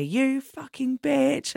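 high, drawn-out mock insult; imitated angry abuse. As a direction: imitate a man going off, slow and high. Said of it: "just went off on me".

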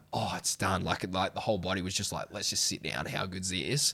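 soft, low, spent relief; retold relief. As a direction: let it sink down quietly, as if finally done. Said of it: "I felt relief when I finished".

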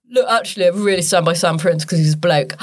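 low, lightly put-on impression; low voice out of half the face; Olivia Bentley. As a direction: let the voice sink low. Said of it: "Olivia Bentley is like".

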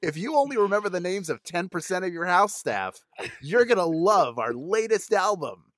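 slightly emphatic mock commercial voice; parody ad read. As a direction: sell it, slowing for the closing tagline. Continues the parody album commercial.

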